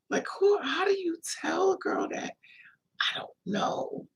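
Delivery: whispered disbelieving aside; hushed unvoiced aside. Real, not acted. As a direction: whisper it like a scandalous secret. Aside about boyfriend's remark.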